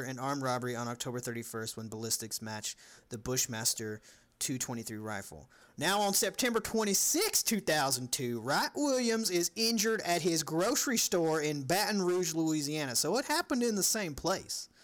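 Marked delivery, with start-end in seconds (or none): 5.8-14.7 reading the case in a put-on Louisiana accent. Host reads the case to cohosts in a Louisiana accent. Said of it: "to do it in an accent that I wanna do".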